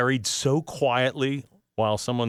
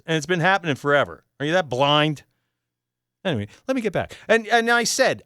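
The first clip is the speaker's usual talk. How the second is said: heated rebuttal; 5 semitones higher, 3 dB louder than usual. Real, not acted. Defending himself against angry email.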